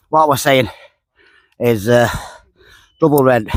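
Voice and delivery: breathless after the fish; talking out of breath. Real, not acted. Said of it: "sorry, 'cause I didn't tell him out of breath".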